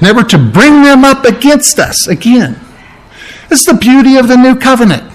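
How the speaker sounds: emphatic preaching. Real, not acted. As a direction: drive the promise home to the congregation. Preacher drives home the promise.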